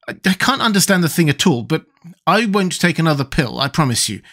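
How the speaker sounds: lightly voiced boy, refusing; Tip, put out.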